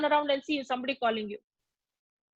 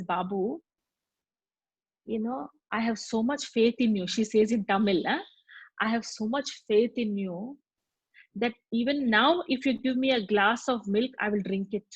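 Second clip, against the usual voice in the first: tender forgiving; 2 semitones lower than usual. Retold or imitated. Dying madam forgives her poisoner.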